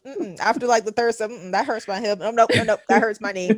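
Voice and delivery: high, loud mock whimpering over fake injuries; hammed-up whining. Dodging her trainer's reps, hammed-up high whining about injuries. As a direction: ham up the aches to dodge the workout. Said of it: "I will pull up all my old injuries and be like".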